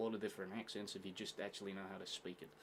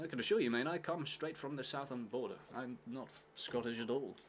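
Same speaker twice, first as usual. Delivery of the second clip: slightly raised, mock English voice; put-on English accent; 3 semitones higher than usual. Winding up someone new about not being Scottish, English accent. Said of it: "speak to them in an English accent".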